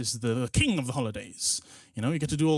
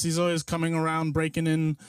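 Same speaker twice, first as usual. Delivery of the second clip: normal talking voice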